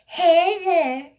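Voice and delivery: high, loud sugary granny call; sweet old woman voice. Retold or imitated. Grandmother calling her granddaughter, sweet old woman voice. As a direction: coo it like a sweet little old lady. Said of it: "in her little sweet old woman voice".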